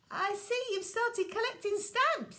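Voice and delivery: put-on high, dry old-aunt voice; aunt remarking drily; wry aunt. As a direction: tease the sticky boy. Aunt sees sticky Walter.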